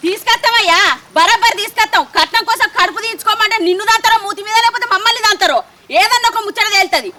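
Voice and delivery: angry retort. Acted. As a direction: throw it back at him in anger.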